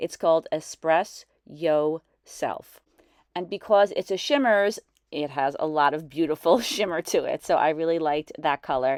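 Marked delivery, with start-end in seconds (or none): 0.0-2.8 very slow, deliberate, drawn out word by word. Speaker naming a brand-new color so they get it right, spoken very slowly. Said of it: "I'm going to say it very slowly".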